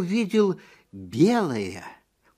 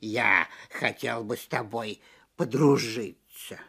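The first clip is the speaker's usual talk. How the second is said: soft purring tiger; 6 semitones lower than usual. Acted. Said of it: "как только мог помягче".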